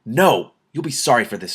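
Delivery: wizard crying out in rage as he melts, angry cry; cried out. A narrator's reading. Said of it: "Antral's voice cried".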